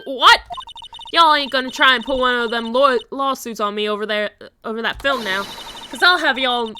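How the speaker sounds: a hint of a feisty southern fighter; improvised southern woman. Southern woman threatening the lawyer over the film. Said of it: "I have no idea what voice I'm doing for her".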